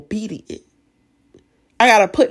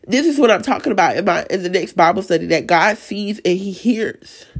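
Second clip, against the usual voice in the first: raspy voice. Real, not acted. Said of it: "sorry for my raspy voice".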